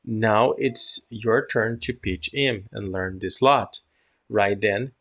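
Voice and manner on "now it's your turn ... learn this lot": slow, careful pronunciation of each word; pronunciation model. Shown as a demonstration. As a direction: read it slowly so students copy the sounds. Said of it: "now listen my pronunciation".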